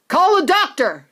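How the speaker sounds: father shouting in panic. Acted. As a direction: shout for help. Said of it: "shouted Mister Beauregard".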